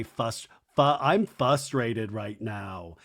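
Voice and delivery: frustrated said without its first r, as fustrated; Lisa Barlow's FRUSTRATED. Retold or imitated. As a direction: mimic "frustrated" as FUS-trated, slow and low. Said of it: "how Lisa Barlow would say".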